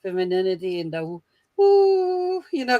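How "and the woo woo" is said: high, drawn-out "woo"; a long, raised mock "woo"; airy woo sound. Mocking the femininity talk, high drawn-out woo.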